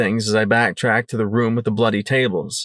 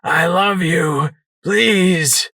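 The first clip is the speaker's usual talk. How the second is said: slow, higher tender pleading; begging; 6 semitones higher, much slower than usual. Acted. Sanguine begging his wife, slow and pleading. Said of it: "he begged".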